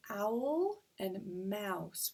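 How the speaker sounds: slow "owl and mouse", lingering on each ow sound; drawn-out vowel demo. Shown as a demonstration. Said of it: "we can hear that ow sound".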